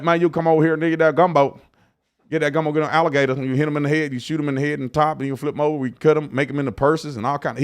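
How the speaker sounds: quick-running imitation of a Louisiana country accent. Host imitating the governor's alligator-hunt invite, Louisiana country accent. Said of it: "he had that accent".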